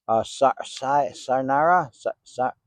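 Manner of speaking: halting, questioning tries at "Sarnara"; sounding out name. Real, not acted. Unsure investigator asking a spirit about its name, tentative sounding-out. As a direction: stammer on "Sa-", feeling out "Sarnara". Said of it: "Is that how you pronounce".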